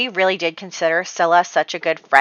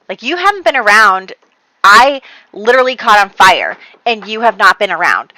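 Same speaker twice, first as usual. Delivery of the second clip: louder, pressing each point; retold argument with some heat; heated rebuttal; 5 dB louder than usual. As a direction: friend hitting back in a quarrel. Margaret angrily defends herself to Scylla.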